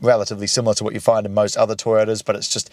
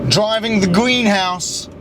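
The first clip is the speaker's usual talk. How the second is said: echoey cabin; 2 semitones higher than usual. Real, not acted. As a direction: voice echoing in a glass cabin. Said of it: "it's so echoey in here".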